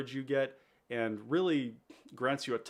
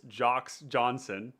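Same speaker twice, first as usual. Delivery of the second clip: laughing; 4 dB louder, much slower than usual. Real, not acted. Joking name for a viewer.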